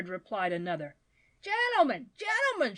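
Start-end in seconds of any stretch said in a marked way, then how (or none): 1.4-2.8 high-pitched urgent cry; screamed appeal. A narrator's reading. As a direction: cry out for the crowd's attention. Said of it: "screamed out Mister Badger".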